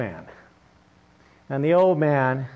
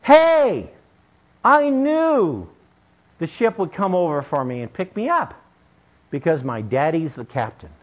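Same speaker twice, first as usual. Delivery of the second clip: put-on excited boy. Boy calls from the rail.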